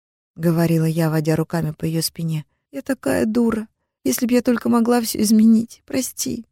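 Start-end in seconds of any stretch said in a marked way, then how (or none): 2.7-6.5 put-on higher girlish confession, tearful; teen sister confesses the call, higher and tearful; young sister Amina. A narrator's reading. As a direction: confess guiltily as the little sister. Sister crying, voiced higher.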